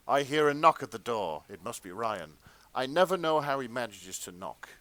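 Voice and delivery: breathy-serious fan fiction reading; erotica-style narration. Acted. Narrator reads fan fiction to co-hosts, dramatic narration. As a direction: read it as overwrought first-person romance.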